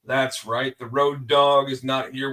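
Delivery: slow, drawn-out announcer call for the show's opening; ring announcer intro. Acted. Host opening his wrestling podcast, announcer style. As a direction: open the show like a wrestling ring announcer, stretching the last line.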